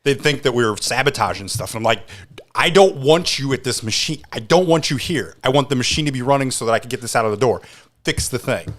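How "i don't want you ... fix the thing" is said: raised, higher voice ordering someone off; retold angry outburst. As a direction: re-enact losing patience with the repair crew. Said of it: "make me really mad because I would go bananas".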